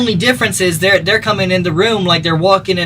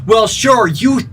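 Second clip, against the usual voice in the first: mocking punk guy. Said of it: "Somewhere in their head".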